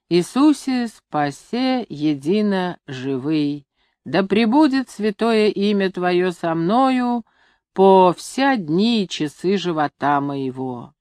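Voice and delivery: slow, measured devotional recitation; solemn prayer reading. A narrator's reading. Grandson reading the prayer over grandfather's bed, slow and solemn. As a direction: intone the inscription unhurriedly.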